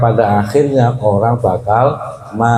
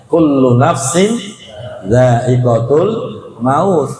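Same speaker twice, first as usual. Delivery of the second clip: Quran recitation; slower than usual. Acted. Preacher recites verse again.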